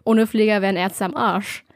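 eating while talking; chewing while talking. Real, not acted. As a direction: talk through a mouthful. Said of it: "ich esse grad was nebenbei".

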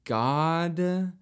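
high, loud, laughing disbelief; shocked laughing teacher. Retold or imitated. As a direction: gasp it out through laughter, stunned. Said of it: "our teacher was like".

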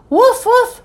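two high-pitched woofs; insistent dog bark. A narrator's reading. Ebb trying to get busy Mom's attention, barking. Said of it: "even louder".

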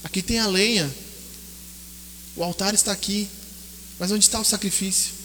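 hushed storytelling. Acted. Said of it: "Ele diz pro pai dele".

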